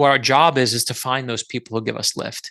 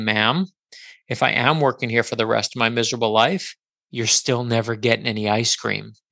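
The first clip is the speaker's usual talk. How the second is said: composed, unruffled, very calm and even; 2 semitones lower than usual. Retelling own answer to a customer who screamed in his face, retelling a calm reply. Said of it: "I said to her very calmly".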